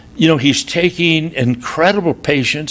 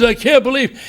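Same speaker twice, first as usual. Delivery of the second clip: mock scream; 11 semitones higher than usual. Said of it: "the woman just starts screaming".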